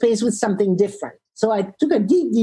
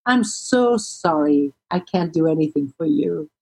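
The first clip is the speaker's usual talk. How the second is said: very normal voice; 4 semitones lower than usual. Retold or imitated. Agent now smiling at traveller, calm normal voice. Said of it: "in a very normal voice".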